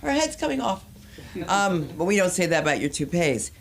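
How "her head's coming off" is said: shrieking high yelp; very high mock shriek of horror; mock panic. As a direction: scream like a head fell off. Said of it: "They're just like".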